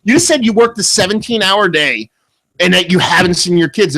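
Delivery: high, incredulous argument; retold yelling. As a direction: re-enact a heated comeback. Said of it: "I'm yelling at him like that".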